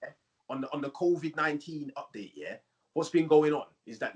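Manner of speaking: lightly voiced roadman giving an official update; brief the nation in a hint of roadman; roadman prime minister. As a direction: roadman leader brushing off blame. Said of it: "There could be prime ministers".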